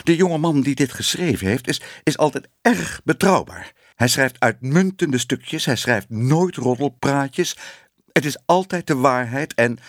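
high, earnest pleading; anxious defence. A narrator's reading. Editor defending his writer to Ellemeet, anxious. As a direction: plead for him in a high, flustered voice.

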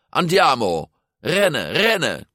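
high-pitched, hurrying cry; urgent urging. A narrator's reading. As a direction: spur a teammate to run. Urging teammate on during race.

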